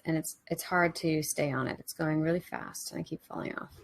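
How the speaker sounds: hushed, unhurried trance-like report; meditative visualisation. Real, not acted. Narrates own inner visualisation in meditation.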